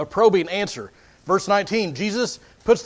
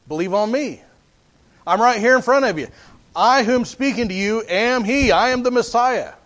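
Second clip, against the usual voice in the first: slightly raised, declarative preacher's voice for Jesus; imagined Jesus declaring himself; 3 semitones higher than usual. Acted. Preacher voicing the answer we might expect from Jesus, declaring. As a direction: announce yourself plainly as the Messiah. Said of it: "expect Jesus to be like".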